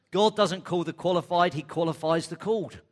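loud, ringing declaration; emphatic proclamation. Real, not acted. Preacher driving home his key line to the congregation, loud. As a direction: preach it out with full force. Punchline of sermon point.

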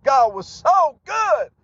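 fervent testimony shout; excited preaching. Real, not acted. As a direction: stretch it out with fervor. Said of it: "I'm getting excited about it".

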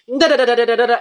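mock argument gibberish; mock arguing babble. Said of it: "I was arguing".

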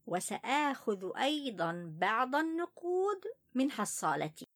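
put-on child voice. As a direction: tell it as an upset little boy. First-person child narrator Ali.

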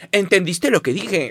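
overly proper voice, slowly; mock formal phrasing. Contrasting fresa slang with stiff proper speech, mock prim. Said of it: "que decir".

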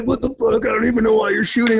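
mock-indignant rant; pissed off. Angry hunter snapping at the guide, mild mock anger. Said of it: "he got pretty pissed off".

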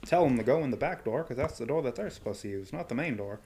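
lightly voiced sleazy exec, hushed; leering wheezy old man. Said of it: "you're like".

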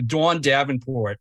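Pittsburgh regional vowels; Pittsburgh accent. Shown as a demonstration. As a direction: say it like a Pittsburgh local. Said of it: "in a Pittsburgh accent".

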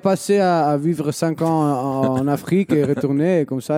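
mock Italian who lived in Africa; Italian-African accent. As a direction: hybrid Italian accent in French. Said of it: "c'est un Italien qui a passé".

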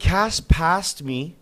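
high, stretched-out excited telling; slow, high and thrilled; real excitement. Real, not acted. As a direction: draw each word out with excitement. Excitedly recalling the race moment.

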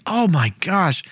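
high, giddy voice of a lovestruck king; gushing king. Retold or imitated. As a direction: ham up the king overjoyed to see her. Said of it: "he's like".

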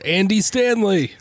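high, slow drawn-out preacher name; lightly mock the famous pastor; Andy Stanley impression. Host jokingly announces a guest in a high slow mock pastor voice. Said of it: "voice impersonate pre-, impressions now".

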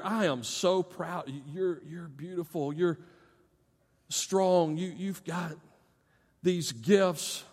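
softly voiced parental praise, unhurried; tender affirmation. Preacher voices a parent praising their child, tender affirmation.

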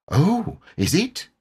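high, slow little voice; high-pitched wary piglet; timid piglet. A narrator's reading. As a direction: say it warily as a very small animal. Timid Piglet edges away.

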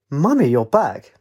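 put-on slow, squeaky childlike delight; high-pitched creature voice. A narrator's reading. Blue greets her returning Mummy, high-pitched creature voice. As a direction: draw it out in a little creature's voice. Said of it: "a high-pitched voice squeaked".

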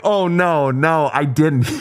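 high-pitched retold "oh no" of dismay; dismayed denial. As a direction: re-enact being mortified at your own blunder. Acting out his mortified denial to son.

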